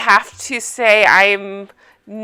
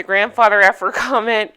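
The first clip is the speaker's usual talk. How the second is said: real suppressed laugh on the words; amused, a laugh slipping out; laughing through it. Real, not acted. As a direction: try to say it without laughing. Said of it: "can't say that without laughing".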